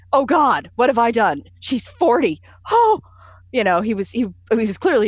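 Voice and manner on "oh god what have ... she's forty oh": mock horror, louder and climbing higher; horrified. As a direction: act out his shock at her age. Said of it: "there was this look of horror".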